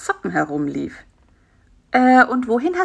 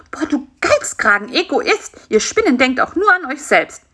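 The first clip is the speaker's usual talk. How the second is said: mock-indignant telling-off, slightly higher; scolding; 4 semitones higher than usual. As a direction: scold the stingy spider in play. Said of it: "schimpfte Bisi".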